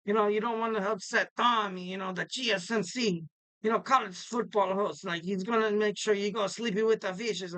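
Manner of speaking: lightly put-on Italian mobster accent. Host jokes about not upsetting Tommy, mock Italian accent. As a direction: play at an Italian wiseguy accent. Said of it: "I have this Italian accent".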